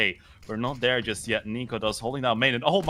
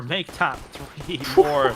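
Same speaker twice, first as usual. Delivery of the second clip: laughing; 4 semitones higher, 3 dB louder, slower than usual. Real, not acted. Laughing at a lopsided round.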